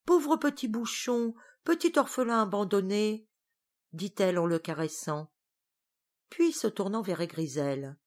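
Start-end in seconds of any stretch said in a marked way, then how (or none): 0.0-3.3 tearful tenderness. Acted. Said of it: "déjà Tatale pleure".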